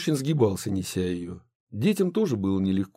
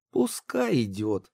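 hopeless; slower than usual. A narrator's reading. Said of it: "безнадёжно сказала девочка".

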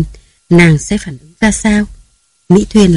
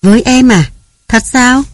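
higher, rising wide-eyed disbelief; a wife caught off guard, asking in surprise; surprised wife; 6 semitones higher than usual. Acted. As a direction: lift each question up in astonishment. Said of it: "mở to mắt ngạc nhiên".

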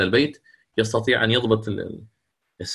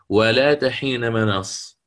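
تلاوة مرتلة; slower than usual. Shown as a demonstration. تلاوة آية في درس قراءات.

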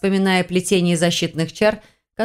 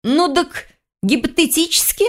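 wheedling; 10 semitones higher than usual. Acted. Heroine wheedles hypothetically.

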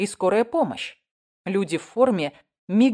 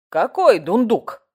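puzzled; 4 semitones higher, 7 dB louder, slower than usual. A narrator's reading. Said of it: "недоумевал Иван Дмитриевич".

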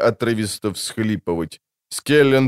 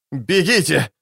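shrieked; 4 semitones higher than usual. Acted. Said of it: "взвизгнул Скеллен".

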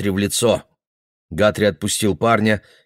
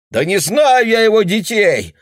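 much higher, loud cry; shout; 12 semitones higher, 5 dB louder than usual. Acted. Boy yelling at Guthrie, loud cry. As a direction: yell the denial. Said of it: "вскричал парень".

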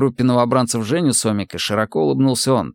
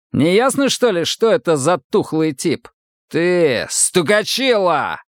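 higher, snapping bark at the last word; 7 semitones higher, slower than usual. A narrator's reading. Гусев рявкает на новобранца Сомика, лая. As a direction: bark the insult at him. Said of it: "гавкнул он на Сомика".

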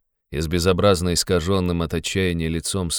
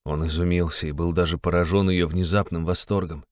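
usual speaking voice

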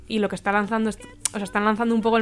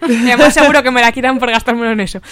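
talking through loud laughter; real laughter in the voice; laughing; 3 semitones higher, 11 dB louder than usual. Real, not acted. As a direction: say it while cracking up. Joking while laughing.

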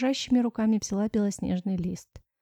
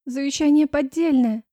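higher, louder disbelieving outburst; blurted out in dismay; 6 semitones higher, 6 dB louder than usual. Acted. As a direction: blurt it out, unable to hold back. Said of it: "выпалила, не в силах сдержать разочарование". (выпалила в отчаянии)

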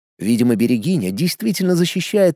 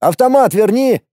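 loud call across the yard; shout; 8 semitones higher, 4 dB louder than usual. A narrator's reading. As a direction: call it out firmly. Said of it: "а после крикнул". (крикнул)

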